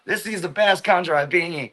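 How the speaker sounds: put-on hype, lightly mocking; mocking gushing foreigners. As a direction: lightly parody a gushing vlogger praising the country. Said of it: "making fun of those people".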